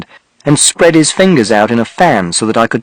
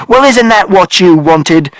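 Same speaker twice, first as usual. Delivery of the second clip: father shouting; 6 semitones higher, slower than usual. A narrator's reading. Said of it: "And father shouted".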